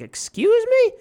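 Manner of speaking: squeaky high excuse me, then slow; offended customer, drawn-out Friday; indignant Huggy Bear. Retold or imitated. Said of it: "He's like".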